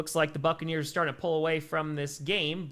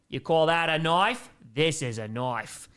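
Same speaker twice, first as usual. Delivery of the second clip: put-on a rough Australian accent, quoting the knife line; slower than usual. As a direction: play a Crocodile Dundee Australian. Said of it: "attempt at an Australian accent".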